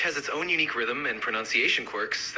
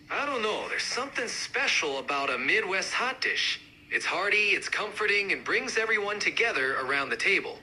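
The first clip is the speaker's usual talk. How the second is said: more pronounced Midwestern accent; amped-up Midwest accent; 3 semitones higher than usual. Shown as a demonstration. Hot dish fan joining the debate, amped-up Midwest accent. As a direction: push the Midwest sound. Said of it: "really amp up the accents".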